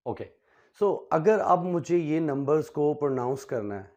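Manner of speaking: ordinary talk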